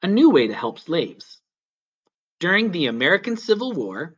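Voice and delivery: put-on gentle, clear read-aloud narration for kids; children's story reading. A narrator's reading. Storyteller reading a history book to children, gentle narration. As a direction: read it like a picture book to young listeners.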